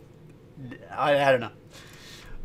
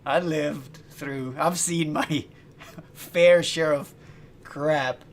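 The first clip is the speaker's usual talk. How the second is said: slow, chill, lightly voiced narrator; a hint of the wise old narrator; laid-back mock Freeman; Morgan Freeman impression; 4 dB louder, much slower than usual. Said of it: "Morgan Freeman's way slower and way more chill".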